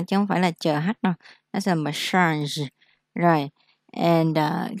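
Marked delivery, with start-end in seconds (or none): 1.5-2.7 Nó là massage slowly, soft zh at the end; slow model. Shown as a demonstration. Teacher models massage slowly for students, soft zh ending. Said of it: "đây là Z H ha".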